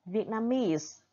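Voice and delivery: main stress on the end of Vietnamese, lighter stress on its start; VIET-na-MESE, strongest on the last syllable. Shown as a demonstration. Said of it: "primary stress on the last syllable". (Vietnamese: nhấn chính âm cuối, nhấn phụ âm đầu)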